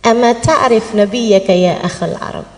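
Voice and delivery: low, slow Arabic question; calm answer to an angry man; gentle question. Acted. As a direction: ask kindly and unhurriedly, pitched low. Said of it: "Terus tanya".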